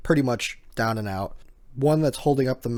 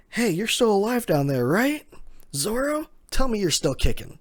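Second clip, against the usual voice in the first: high, loud call downward; 10 semitones higher, 3 dB louder than usual. Retold or imitated. Franky calls down to the falling Zoro, loud and high. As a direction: shout down the cliff.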